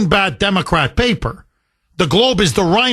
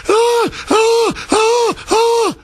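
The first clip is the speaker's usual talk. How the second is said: very high, hammed-up shrieking protester woman; mock screeching wail; much slower than usual. Host mimicking a shrieking woman at a rally, mock wail. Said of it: "a woman with the helicopter, like".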